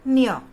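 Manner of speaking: न्य punched out loud and high as one syllable; letter pronunciation demo. Shown as a demonstration. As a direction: close the recitation with an emphatic न्य. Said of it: "आपको उसका उच्चारण करके". (न्य का ऊँचा, ज़ोरदार उच्चारण)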